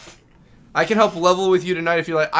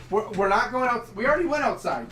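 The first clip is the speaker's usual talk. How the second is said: pitched-up sing-song scolding of the dog; high dog-talk; 6 semitones higher than usual. Real, not acted. Owner to his excited Saint Bernard, high sing-song dog-talk.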